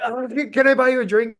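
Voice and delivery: very high, strained mock pleading; crazy-sounding fan. Fan offering the singer a drink, crazy high voice. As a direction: imitate an overexcited guy begging to treat the band. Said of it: "I know I sound crazy".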